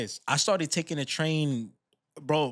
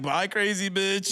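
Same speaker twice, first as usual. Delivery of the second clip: put-on higher, drawn-out drunk man's goodbye; retold drunk man; 4 semitones higher, slower than usual. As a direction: imitate a drunk rider calling goodbye, stretched out. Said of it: "Some drunk, like, Irish or Russian dude".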